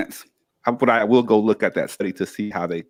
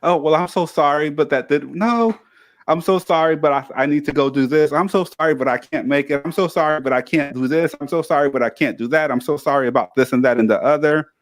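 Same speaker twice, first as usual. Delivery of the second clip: mock over-apologetic; 2 semitones higher than usual. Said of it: "stop being so apologetic".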